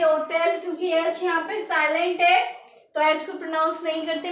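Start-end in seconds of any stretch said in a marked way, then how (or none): 0.0-0.6 ओतेल said with no h, French hôtel; silent h. Shown as a demonstration. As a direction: drop the h: ओतेल. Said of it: "क्या बोलेंगे?". (एच के बिना ओतेल)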